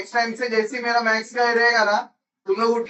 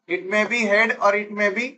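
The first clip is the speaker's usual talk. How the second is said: slow dictation; much slower than usual. Real, not acted. Dictating notes to the class.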